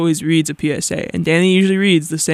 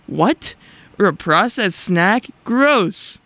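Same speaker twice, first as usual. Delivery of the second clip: mock disgust; 4 semitones higher, much slower than usual.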